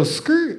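badly imitated tire screech; rapper-style skrrt. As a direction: have a go at the tires' "skrrt". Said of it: "I can't really do it".

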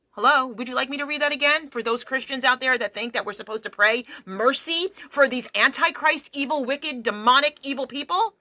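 fast mocking rhetorical question; sarcastic. Real, not acted. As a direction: needle them with sarcasm. Sarcastic jab at Christians.

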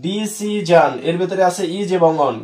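slow, deliberate teacher dictation; slow model line. Shown as a demonstration. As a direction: say it slowly for students to repeat. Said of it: "বলো এরকম আমার মতন বলো". (ধীরে ধীরে, ছাত্রদের অনুকরণের জন্য)

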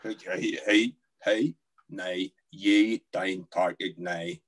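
menacing Northern Irish growl of words; Northern Irish accent. Shown as a demonstration. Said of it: "Northern Irish often sounds like you wanna kill somebody".

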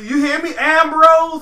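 mock wrestler promo shout; mock promo yell. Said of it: "I'm like".

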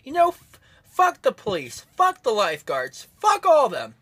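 furious rant at the police and lifeguards; angry outburst. Real, not acted. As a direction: spit it out at the police, fed up. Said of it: "I am pissed".

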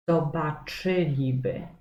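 zobaczyliby stressed on CZY; zobaczyliby with CZY hit; stress on third from end. Shown as a demonstration. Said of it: "Też jest to trzecia sylaba od końca".

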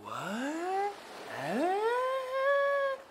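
soft, rising baffled what; stunned disbelief. Acted. Disciples stunned after the storm stops, baffled. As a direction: sound too shocked to speak.

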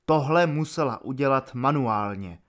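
ordinary delivery

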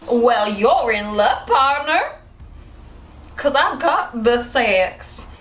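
slow, drawn-out mock western seduction; hammed-up cowgirl. Wife in role play, slow hammed-up cowgirl voice. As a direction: lay on the cowboy charm, slowly.

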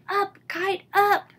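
high, loud joyful shout. Acted. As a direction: yell it up to the sky like a cheering kid. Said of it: "and shouted".

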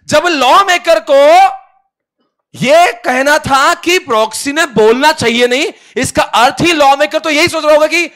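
high, loud declamation; judge's mock shouting. Judge explains the lawmaker's intent to both parties, mock shouting. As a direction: thunder it out like an exasperated judge.

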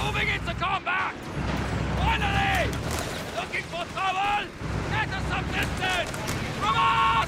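urgent crew calls under fire; combat shout. Acted. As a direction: shout orders over the battle noise.

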